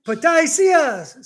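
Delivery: high, loud, drawn-out mock yell; retold yell. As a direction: imitate a man yelling from behind. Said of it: "he kept yelling".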